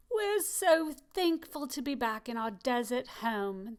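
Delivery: cheering. Acted.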